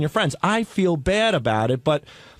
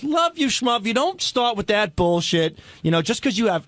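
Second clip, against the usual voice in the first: mimicking Robin's snap; 5 semitones higher than usual. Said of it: "She goes".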